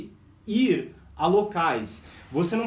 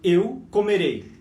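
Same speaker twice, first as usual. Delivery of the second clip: "eu comerei" slow and loud; slow teaching model; slow demo; 4 dB louder, slower than usual. Shown as a demonstration. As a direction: model it slowly. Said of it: "se eu falo assim, ó".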